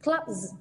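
"clubs" ending in a buzzed z; voiced Z ending. Shown as a demonstration. Teacher modelling a plural for students, "clubs" with a z ending. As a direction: voice the final s of "clubs" as z. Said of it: "S sẽ đọc là z".

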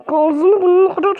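sputtering mock rage; words collapsing into an angry splutter; too angry to speak. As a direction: garble the threat as if choking on fury. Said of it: "konuşamıyorum sinirden".

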